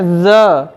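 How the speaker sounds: ज said as a drawn-out z, not j; teacher slowly models ज as z; z sound, slowly. Shown as a demonstration. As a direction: stretch ज into a buzzing z. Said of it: "ज नहीं पढ़ेंगे".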